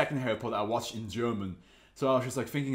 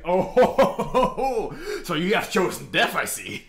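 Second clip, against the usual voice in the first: villain gloat; 6 semitones higher, 8 dB louder than usual. Retold or imitated. Voicing Black Sabbath the villain, hammed-up gloat. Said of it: "Black Sabbath's like".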